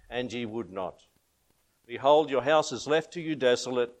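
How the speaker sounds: measured, grave King James reading; solemn scripture reading. Acted. Preacher reading Jesus' lament to the congregation, solemn. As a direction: read the lament with weight.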